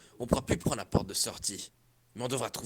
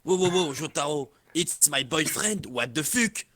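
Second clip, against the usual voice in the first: put-on stretched protest in a French accent; French-accented English; 3 semitones higher, 4 dB louder than usual. Boyfriend confronting Jotaro over the kiss, French accent.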